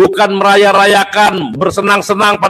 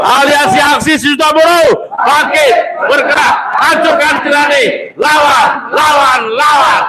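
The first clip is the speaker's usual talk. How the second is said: fiery revolutionary speech; 6 semitones higher than usual. Real, not acted. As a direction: shout the slogans to the crowd. Rally chant, shouting slogans. (orasi berapi-api, berteriak lantang)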